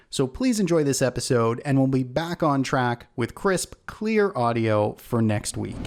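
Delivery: echoey backup mic sound; like recording inside a tin can. Real, not acted. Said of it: "it does sound like I'm in a tin can".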